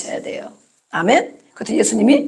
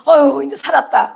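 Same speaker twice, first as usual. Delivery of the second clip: acted sigh of relief, raised start; relieved disciples; 3 semitones higher than usual. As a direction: let out a mock "phew" of relief. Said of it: "제자들은". (안도하며 한숨 놓는 말투)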